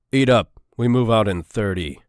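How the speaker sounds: loud, stern command to the squad; a sergeant ordering his troops to eat. Acted. Sergeant tells the resting squad to eat up, stern loud order. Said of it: "ordered Sergeant Marks".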